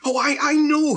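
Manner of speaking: high-pitched, frantic assertion; overwrought, near-hysterical claim; desperate insistence. Acted. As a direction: plead to be believed, pitch soaring. Father desperately insists to wife.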